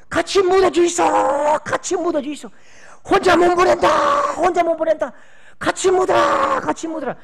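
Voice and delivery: high, loud, keening shout in dialect; a mother wailing over her son's coffin; grief-stricken mother screaming to be buried with him. Retold or imitated. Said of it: "통곡을 하면서".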